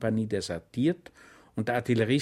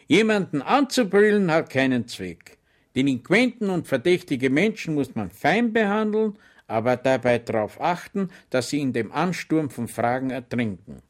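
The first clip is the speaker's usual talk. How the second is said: higher, louder instructive sergeant; police sergeant lecturing; 4 semitones higher, 5 dB louder than usual. Acted. Sergeant lecturing his subordinates, higher and louder. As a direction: preach it to your men.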